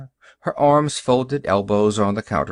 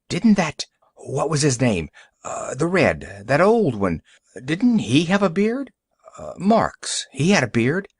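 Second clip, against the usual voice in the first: higher, searching for a name; a hint of a wary busybody, pitched up; lightly voiced suspicious customer; 4 semitones higher than usual. Customer recalls the bearded Red to shopkeeper, lightly suspicious.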